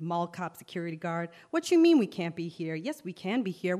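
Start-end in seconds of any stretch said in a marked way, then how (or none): 1.5-3.8 indignant protest. Acted. Arguing with the security guard.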